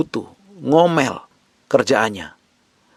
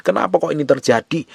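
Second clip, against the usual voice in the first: normal talking voice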